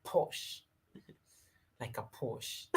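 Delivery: breathy whispered Posh, drawn out slow; a soft whisper, laughing at the end; savoring whisper. Shown as a demonstration. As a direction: whisper Posh as if tasting the word. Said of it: "I just love how it has a nice ring".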